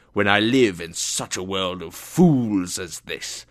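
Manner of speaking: grumpy, put-on old uncle; irritated complaint. A narrator's reading. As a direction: complain with rising force on the key words. Angry uncle complains of fools.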